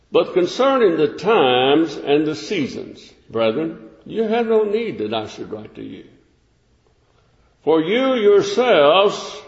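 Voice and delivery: measured, deliberate Bible reading; scripture reading. Acted. Preacher reading scripture to his congregation, measured. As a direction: read the verse out to the congregation.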